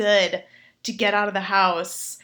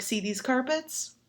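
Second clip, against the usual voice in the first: much softer low bedroom voice; seductive murmur; 3 semitones lower, 6 dB quieter than usual. Retold or imitated. The gentleman teasing about the carpets, a soft seductive murmur. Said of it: "He's like".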